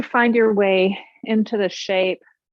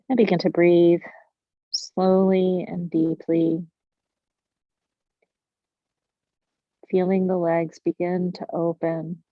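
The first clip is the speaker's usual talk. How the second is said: guided meditation. Real, not acted. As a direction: guide them into stillness with long pauses. Leads a breathing meditation.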